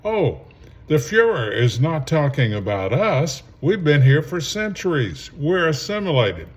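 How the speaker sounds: sarcastic imitation of people brushing off danger; mock complacent voice. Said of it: "you sound just like the Jews".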